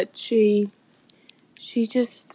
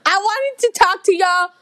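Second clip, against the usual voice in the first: put-on thick Yorkshire accent; 5 semitones higher than usual. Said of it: "That is one thick Yorkshire accent".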